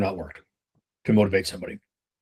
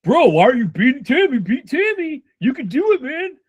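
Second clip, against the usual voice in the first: mock coach yelling, much higher and louder; hyped-up pep talk; 11 semitones higher, 4 dB louder than usual. Manager hammering a rep about Tammy, mock-shouted higher and louder. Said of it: "What I'm not doing here is I'm going".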